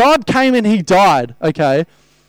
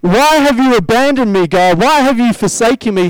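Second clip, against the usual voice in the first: anguished cry; 3 semitones higher than usual. Retold or imitated. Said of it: "hearing Jesus cry".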